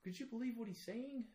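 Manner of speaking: hammed-up Southern redneck, loud and high-pitched; Southern redneck accent. Showing off his Southern accent at a Minnesota party, loud and hammed-up. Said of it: "my Southern accent, redneck at parties".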